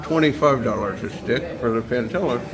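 muffled, talking around a cigar; cigar in mouth. Real, not acted. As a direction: speak with a cigar clenched in your teeth. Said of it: "Sorry about being muffled, but I have a cigar in my mouth".

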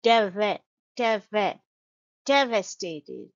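"devastated" built up from "Deva-", DEV-uh; schwa second syllable. Shown as a demonstration. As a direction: stress DEV and reduce the second vowel of "devastated" to uh. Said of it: "the second syllable is schwa sound".

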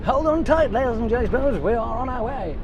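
announcer voice. Pretend. Announcing to viewers like a host.

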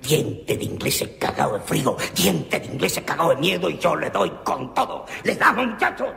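arenga creciente hasta el grito. Acted. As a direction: subir hasta gritar la orden. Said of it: "gritó el tal Arce". (arenga gritada del jefe)

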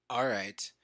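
breathy whisper to self. Real, not acted. Fixing a recording glitch, whispering to himself. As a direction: whisper it under your breath.

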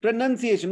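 PRONUNCIATION with "nun" as second syllable, not "noun"; correct pronunciation. Shown as a demonstration. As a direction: correct it firmly: pro-NUN-ciation. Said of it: "not pronounce".

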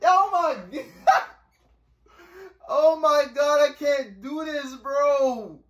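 slow, laughing through the fright; nervous laughing protest; laughing in fear. Real, not acted. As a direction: giggle while you panic. Scared, laughing in horror game.

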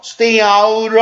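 "out" linking on with an R sound; T turned to R. Shown as a demonstration. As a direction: say "stay out" as stay-our, T softened to R. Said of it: "R자 사운드로 바뀌죠".

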